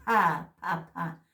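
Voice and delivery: "Pa" with a puff of air after the p; aspirated pa. Shown as a demonstration. Teacher drilling aspirated p for students, breathy. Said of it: "La P con la H".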